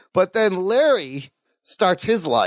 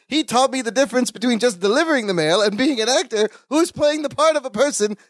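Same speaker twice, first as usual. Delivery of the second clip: higher, quick build into a long held last word; pompous actor; 5 semitones higher than usual. Acted. Balky proudly explains his acting lesson to the director, lightly hammed-up. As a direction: stretch the final word like a ham actor.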